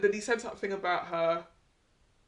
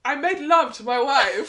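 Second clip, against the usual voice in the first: imitating Luke; 4 semitones higher, 8 dB louder, slower than usual. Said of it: "when he said on the couch".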